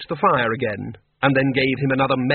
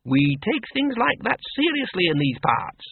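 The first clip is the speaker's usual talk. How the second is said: put-on brisk old farm woman, pitched higher; a blunt countrywoman who knows more than she says; Miss Flitworth; 8 semitones higher than usual. A narrator's reading. Farm woman voiced in story.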